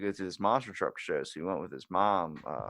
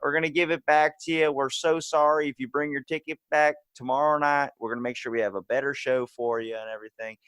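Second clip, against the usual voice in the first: high, loud Southern PA apology; Southern announcer; 6 semitones higher, 6 dB louder than usual. Retold or imitated. Announcer refunding a monster truck crowd, Southern accent. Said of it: "That's a pretty good accent you got going there".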